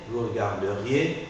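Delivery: regarderiez slowly, as "re-gar-de-riez"; mute E pronounced. Shown as a demonstration. Teacher models regarderiez for student to repeat, E articulated. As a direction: keep the E before -riez in regarderiez. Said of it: "j'articule le E muet".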